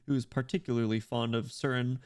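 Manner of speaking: lightly voiced scholarly pope; a hint of a formal church leader; pope character. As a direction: hold forth as a pontiff discussing a predecessor.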